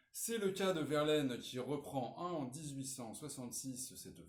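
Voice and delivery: measured read-out of a model essay; reading aloud. Acted. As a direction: read the introduction out clearly for students. Reads model introduction aloud. (lecture à voix haute)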